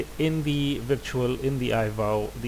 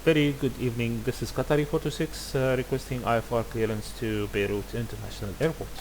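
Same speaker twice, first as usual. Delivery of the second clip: radio call. Shown as a demonstration. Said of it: "And it goes like that".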